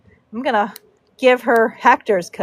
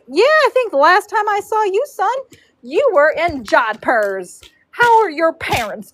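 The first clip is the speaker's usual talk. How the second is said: teasing braider; 5 semitones higher than usual. Retold or imitated.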